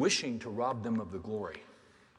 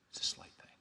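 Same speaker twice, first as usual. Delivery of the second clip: soft unvoiced whisper; whispered echo; 7 dB quieter, faster than usual. Preacher repeats his point to the church, whispering. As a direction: breathe it out like a secret. Refrain echoed in a hush.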